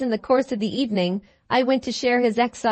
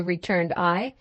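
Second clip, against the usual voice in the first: ordinary delivery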